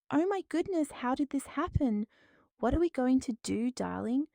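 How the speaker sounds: high, gasping fake alarm; feigned shock. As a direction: act stunned and worried. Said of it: "My performance was so convincing".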